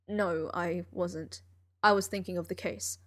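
lightly voiced weary genius; Sherlock voice. Sherlock speaking in story.

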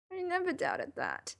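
high, tearful voice; sniffing, tearful. A narrator's reading. Narrator tearfully reassures Sherlock of their love, sniffing.

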